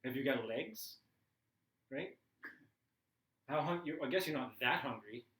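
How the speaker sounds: rising exasperated rant at the family. Retold or imitated. Tired stepdad venting at the stepson on the phone, rising indignation. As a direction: build from sarcasm to a pleading complaint.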